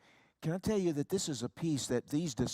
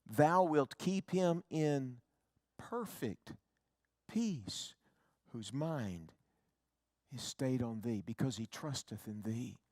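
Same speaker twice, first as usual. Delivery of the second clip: scripture reading; slower than usual. Acted. Recites scripture slowly and softly.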